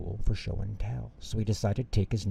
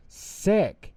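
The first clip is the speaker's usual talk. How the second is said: surprised echo; 11 semitones higher, 3 dB louder than usual. A narrator's reading. Doctor eager.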